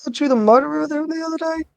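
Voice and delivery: high-pitched Brooklyn tough-guy voice; squeaky put-on Brooklyn detective accent. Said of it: "I'll try it".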